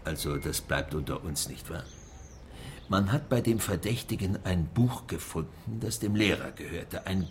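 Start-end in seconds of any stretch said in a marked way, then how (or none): 0.0-1.8 confidential. Acted. Mayor confides a secret to journalist.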